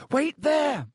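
high, urgent call. A narrator's reading. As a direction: call firmly to someone beyond a wall. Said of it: "he called to Ron".

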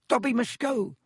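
very high, breathed elf voice; squeaky, fearful elf; terrified house-elf. A narrator's reading. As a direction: gasp it out high as a frightened elf. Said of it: "breathed the elf".

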